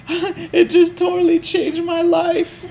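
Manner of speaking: high, gushing infomercial customer voice; over-the-top grateful customer, half laughing; gushing testimonial customer. Retold or imitated. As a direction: ham up a tearful satisfied buyer. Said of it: "They're like".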